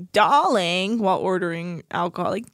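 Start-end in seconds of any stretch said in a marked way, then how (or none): 0.1-1.0 posh drawl. Retold or imitated. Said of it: "she says things like".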